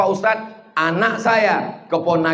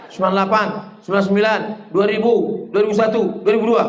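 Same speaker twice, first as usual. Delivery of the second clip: rattled-off recount; much faster than usual. Shown as a demonstration. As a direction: recount "dua ribu dua" rapidly at the end. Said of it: "Du-, eh, dua ribu dua pula".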